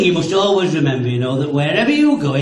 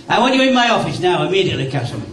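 sergeant major; 4 semitones higher than usual. Acted. Sergeant major ordering Castle into his office, lightly commanding. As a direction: give a hint of a sergeant major summoning a soldier. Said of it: "the Sergeant Major said to me".

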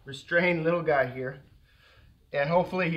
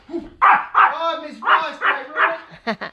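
high, louder mock-worried coo; 9 semitones higher, 10 dB louder, much slower than usual. Real, not acted. Baby talk to dog.

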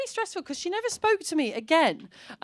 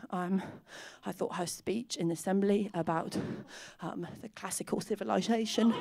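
much softer, lower, hesitant; shy confession; 5 semitones lower, 10 dB quieter than usual. Retold or imitated. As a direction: confess it timidly with pauses. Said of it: "And I said".

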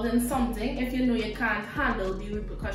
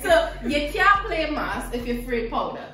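Trinidadian lilt on the phrase; caribbean accent; 3 dB louder than usual. Shown as a demonstration. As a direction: say it like a Trinidad saying. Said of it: "let me pronounce it for you".

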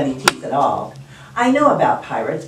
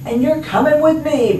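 pirate captain; 8 semitones higher, 3 dB louder than usual. Acted. Captain commands boy.

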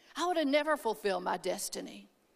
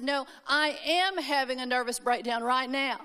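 firm stress on "am"; insistent contradiction. Retold or imitated. Daughter stopping her dad in his tracks, insistent. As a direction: push back, leaning on "am".

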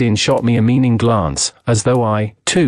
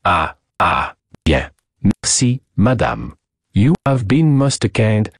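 put-on courteous French accent; 2 semitones lower, slower than usual. Detective thanks madame for her help, courteous French accent.

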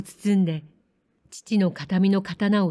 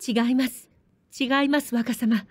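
put-on girl's raised voice, no, no, my lord; pleading cry; 5 semitones higher than usual. A narrator's reading. Girl cries out to the young lord in protest. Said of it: "おななが耐えかねて叫んだ".

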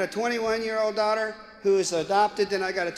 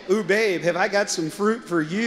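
sleazy snake. Retold or imitated. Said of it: "And the snake said".

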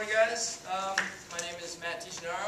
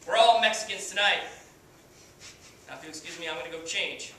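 cocky washed-up pitcher, swaggering speech; brash halftime pep speech, full of bravado; Kenny Powers; 6 dB louder than usual. Acted. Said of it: "as Kenny Powers".

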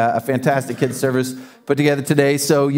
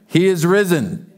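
call to congregation. Real, not acted. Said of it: "you gotta say it like you mean it".

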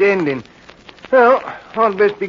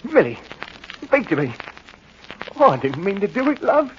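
remorseful. Acted. Horror after stabbing wife.

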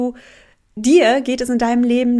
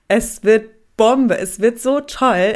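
excited; 5 dB louder, slower than usual. Real, not acted. Excited about her program.

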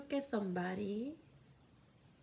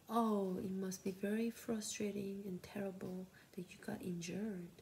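slow soothing. Shown as a demonstration. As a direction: ease it out gently to calm them. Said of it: "in the slow paced".

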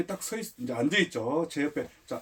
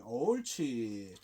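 long drawn-out, softer "good"; soft praise; 4 semitones lower, 8 dB quieter, much slower than usual. Real, not acted. Trainer rewarding the dog for barking, soft praise. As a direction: stretch the praise out slowly, gently. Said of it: "칭찬은 아주 부드럽고".

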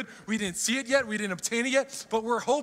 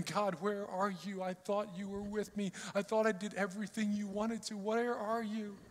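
softer, hushed cry to God; lost and pleading, half under the breath; quiet desperate prayer of a king; despairing plea; 6 dB quieter than usual. Retold or imitated. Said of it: "Hezekiah thinking".

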